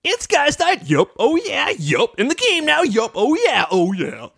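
high, bouncy chanting; excited cheer. Retold or imitated. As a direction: cheer like a team pumping up. Characters doing their cheer.

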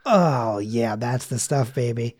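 hammed-up American fan savouring a British word; mock swooning. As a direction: melt like it's a treat. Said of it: "and you're like".

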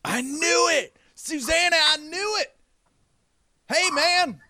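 excited, very high-pitched character; Eddie. Acted. Eddie telling Susanna he knew it, high and excited. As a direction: call out in a high, delighted voice. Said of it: "the left is like".

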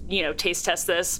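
lightly voiced Noctis, slow and low; a hint of Noctis, unhurried. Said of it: "in the way Noctis would say it".

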